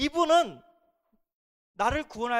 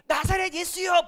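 called out; 8 semitones higher, 5 dB louder than usual. Shown as a demonstration. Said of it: "부르지 않고".

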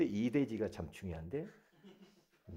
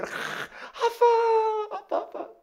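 put-on high, excited child's call; child greeting dad; 6 dB louder, faster than usual. Preacher playing child meeting tired dad, child's call. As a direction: imitate a child thrilled Dad is home. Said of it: "아빠도 막 피곤해가지고 일하고 와서".

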